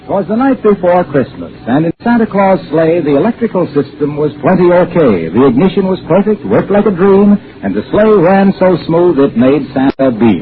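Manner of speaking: sing-song Christmas rhyme read with a lilt; rhyming ad verse. Acted. Announcer reciting a Christmas rhyme for listeners, bouncy. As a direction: recite it like a holiday jingle.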